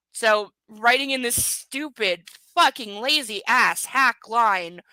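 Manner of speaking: slow, loud, punched-out scorn; scornful rant. Real, not acted. Reader scorning the author's lazy writing, contemptuous rant. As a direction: hammer each word slowly with disgust.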